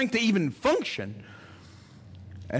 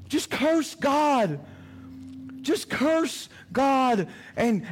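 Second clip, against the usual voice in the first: tempter's voice; 2 semitones higher, much slower than usual. Acted. Preacher voicing the enemy urging Job to give in, slow and insistent. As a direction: lean in and drag each word out. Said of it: "Do you hear his voice?".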